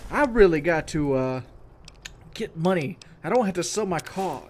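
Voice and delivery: commercial guy voice. Retold or imitated. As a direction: read it like a TV ad actor. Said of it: "this is the white guy toward the beginning".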